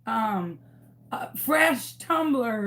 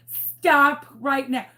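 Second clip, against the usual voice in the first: stern order; 2 semitones higher, 5 dB louder, slower than usual. Retold or imitated. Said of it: "I was like".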